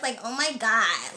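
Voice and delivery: annoying American accent, words drawn out; mock an irritating American reality-star voice; slow, exaggerated American "oh my God"; Kardashians. Shown as a demonstration. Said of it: "you know the Kardashians?".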